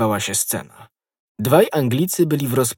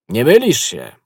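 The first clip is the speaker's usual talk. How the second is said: louder reply, carrying; raised voice; 6 dB louder than usual. A narrator's reading. Friend answers through the cellar door, raised voice. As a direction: raise your voice to be heard. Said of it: "podnosząc głos".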